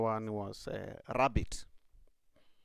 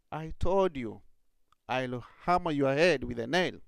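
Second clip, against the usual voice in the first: louder threatening rat; angry rat; 2 semitones higher, 5 dB louder than usual. Acted. Rat threatens rabbit the third time, louder. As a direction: snap the warning back at him.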